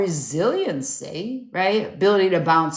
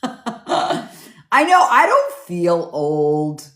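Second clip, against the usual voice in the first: laughing; 3 semitones lower, much slower than usual. Real, not acted.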